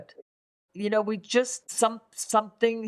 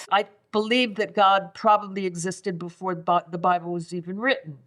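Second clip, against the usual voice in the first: sarcastic. Acted. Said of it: "that's my best attempt at sarcasm".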